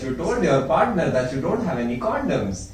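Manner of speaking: slow, exaggerated Indian accent; hammy Indian accent as Alexa, laughing; weird Indian accent. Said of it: "I'm saying this in a very weird Indian accent".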